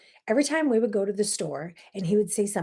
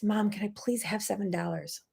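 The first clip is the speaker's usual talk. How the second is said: put-on whispered child's plea; 6 dB quieter than usual. Son quietly asks mom for money.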